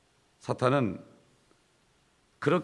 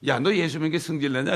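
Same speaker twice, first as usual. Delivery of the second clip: mildly heated mock scolding, louder and higher; quarrelsome retort; 4 semitones higher, 5 dB louder than usual. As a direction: act out picking a fight. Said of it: "딴 거 싸우는 거예요". (싸우듯 따지는 흉내)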